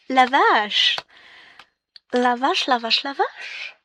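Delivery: loud astonished la vache; amazed gasp of la vache; stunned exclaiming. Real, not acted. Shocked at the unrolled cloth.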